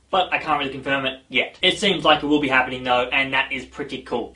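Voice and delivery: flat robotic delivery. Real, not acted. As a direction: talk like a robot. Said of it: "I started to speak like a robot".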